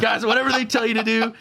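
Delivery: high-pitched anxious warning; mock terrified. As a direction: imitate scared inmates urging compliance. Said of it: "now they are all terrified".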